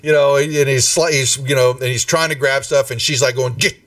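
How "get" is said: high, drawn-out stern order; scolding. Acted. Valletta stops Nim grabbing his things, scolding. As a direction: order him back, voice pitched right up.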